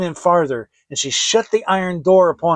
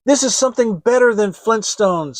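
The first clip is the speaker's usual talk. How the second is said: delighted; 5 semitones higher, 6 dB louder than usual. Acted. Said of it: "said Hansel".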